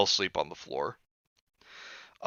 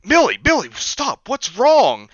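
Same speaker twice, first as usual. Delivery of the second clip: high, loud urgent calling; alarmed high calls to a screaming friend; 12 semitones higher, 8 dB louder, slower than usual. Retold or imitated. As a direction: call his name to snap him out of it. Pleading with startled friend.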